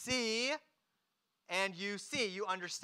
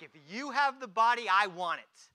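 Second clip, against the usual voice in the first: louder acted plea, falling at the end; insistent demand; 7 dB louder than usual. Mary confronts the supposed gardener, insistent.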